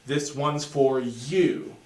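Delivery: slow phrase pushing through to a long "you"; driving into you. Shown as a demonstration. First three notes driving into the downbeat, stress arriving on "you". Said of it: "are driving into the downbeat".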